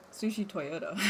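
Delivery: Japanese words with American vowels; lightly Americanised Japanese pronunciation; American accent. Shown as a demonstration. Chat host trying Japanese words on request, American accent. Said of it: "that kinda sounded American".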